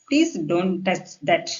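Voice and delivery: very slow, polite wording; polite request. Shown as a demonstration. Teacher rewords an order for learners, slow polite request. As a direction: ask courteously, spacing the words out slowly. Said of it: "இந்த மாதிரி பொலைட்டா பேசினா".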